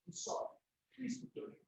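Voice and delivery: breathy, voiceless near-whisper apology; choked apology. Real, not acted. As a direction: barely get the words out, overcome. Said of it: "'Cause this is emotional".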